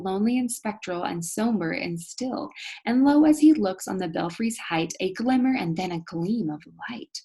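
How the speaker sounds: reading the verse with rising tension; poem reading. A narrator's reading. Teacher reads the final stanza to the class, with suspense. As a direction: build the suspense as you read.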